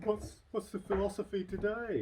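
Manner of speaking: high, slow mock "What's, what's the philosophy today?"; mock viewers asking. Host voicing viewers asking his daily message, high and slow. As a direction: play the curious audience, drawn out. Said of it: "the people aren't asking".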